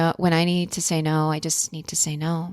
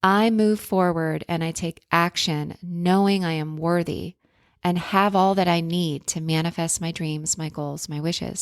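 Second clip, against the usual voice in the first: affirmation reading. Shown as a demonstration. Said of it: "I'm gonna say that again".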